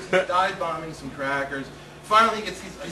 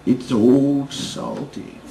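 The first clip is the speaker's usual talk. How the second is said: dread through laughter; 6 semitones lower, 6 dB louder, much slower than usual. Retold or imitated. Old man names the bird.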